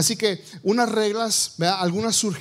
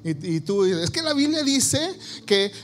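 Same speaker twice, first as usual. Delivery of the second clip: mock husband preaching. Husband voiced quoting Bible.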